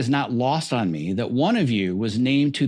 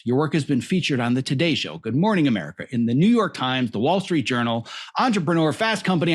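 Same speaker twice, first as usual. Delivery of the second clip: running out of breath mid-list; breathless after a long intro list. Real, not acted. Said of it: "I'm running out of breath".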